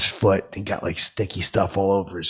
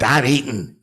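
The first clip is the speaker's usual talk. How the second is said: higher-pitched crank imitation; 5 semitones higher, 3 dB louder than usual. Crank brushing off fan while eating, higher mimicry. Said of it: "He does like".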